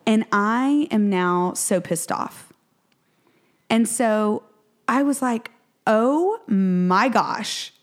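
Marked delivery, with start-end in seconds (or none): 5.9-7.7 stunned. Retold or imitated. Her stunned reaction.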